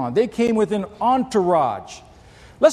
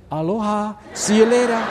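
wife's breezy goodbye; 4 semitones higher than usual. Retold or imitated. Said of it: "She said".

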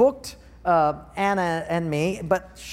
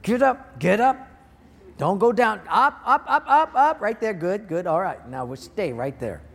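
coaching himself; 3 semitones higher than usual. Retold or imitated. Talking to his spirit, urging it to get up and keep going. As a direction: cheer his own spirit upward like a coach. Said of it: "I talk to my spirit".

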